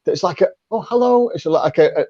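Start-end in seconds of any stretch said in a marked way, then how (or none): 0.7-1.3 a higher, light, gentle hello; soft-spoken lady. Retold or imitated. Coach imitating a soft-spoken lady answering the phone, high gentle hello. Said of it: "a lady with a very soft-spoken voice".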